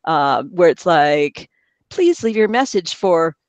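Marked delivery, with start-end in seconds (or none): 1.9-3.4 slow, measured automated greeting; slowed-down phone-system recital; voicemail recording. Retold or imitated. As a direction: mimic a voicemail announcement. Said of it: "then goes to voicemail".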